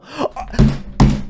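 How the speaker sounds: high breathy shocked gasp; sharp gasp. Real, not acted. Player attacked mid-fight, sharp shocked gasp. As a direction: gasp in alarm.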